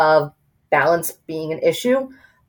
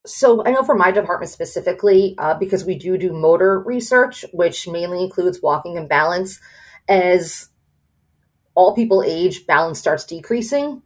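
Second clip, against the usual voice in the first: speaking with a room echo. Real, not acted. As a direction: voice echoing in a big hall. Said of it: "I'm echoing".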